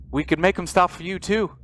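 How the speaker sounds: urgent pleading. Acted. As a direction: plead with mounting desperation. Desperate man pleads in game scene.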